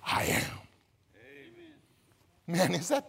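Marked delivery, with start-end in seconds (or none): 0.0-0.6 hushed, breathy contrast; sudden whisper after the shout. Acted. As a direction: drop to a whisper for "I am". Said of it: "whispered after shouting".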